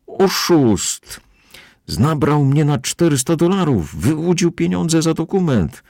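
high, slow raging shouts; furious outcry. A narrator's reading. Captain shouting accusations at the caught man, high and raging. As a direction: hurl each accusation at the crowd. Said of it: "wykrzykiwał".

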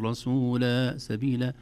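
"رسولا سبيلا" ending in an open long aa; compensatory long vowel. Shown as a demonstration. Teacher showing the pausal form, "رسولا سبيلا" ending in long aa. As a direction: drop the n, end "رسولا سبيلا" on aa. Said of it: "مد عوض عوضا عن التنوين".

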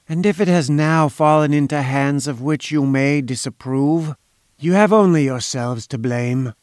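lightly voiced smug inventor, faint foreign accent; silky foreign schemer. Inventor telling visitors the government lost its chance, lightly smug. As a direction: needle them smoothly, with a hint of foreign accent.

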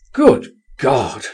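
mild startled exclamation; exclaiming. A narrator's reading. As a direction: let it burst out, lightly. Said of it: "I exclaimed".

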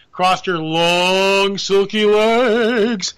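slow, drawn-out seductive read; slow seductive tease; sultry. Retold or imitated. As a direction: stretch it out like a sultry lounge ad. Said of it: "Where's the saxophone music?".

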